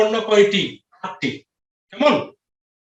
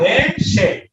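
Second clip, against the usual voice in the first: দেশে split into দে and শে with a short gap; syllable by syllable; much slower than usual. Shown as a demonstration. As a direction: show the two syllables of দেশে separately. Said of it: "এখানে কয়টি". (দেশে দুই ভাগে ভেঙে: দে, শে)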